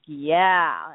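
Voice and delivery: punchy imitated yeah; amped-up client. Client spots a girl and answers his coach, amped up. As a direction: lightly mimic a keen client. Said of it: "all amped up".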